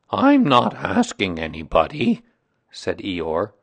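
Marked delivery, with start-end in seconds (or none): 0.1-2.2 put-upon complainer with swooping emphasis; gloomy donkey, aggrieved. Acted. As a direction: air the grievance heavily, dragging the words.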